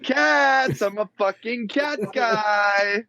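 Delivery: slow, lightly booming godlike voice; a hint of the voice of God. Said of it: "you sound like God, man".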